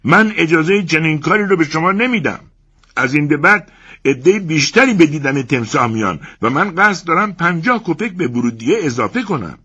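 shouting. Acted. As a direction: bellow in protest. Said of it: "فریاد زد".

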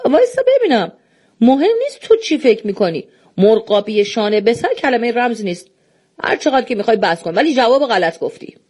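irritated. Acted. Doorman objects firmly.

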